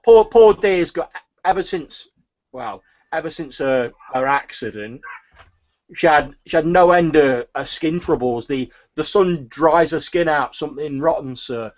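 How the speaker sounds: gossiping turnip seller. Acted. Seller gossips about Alamina.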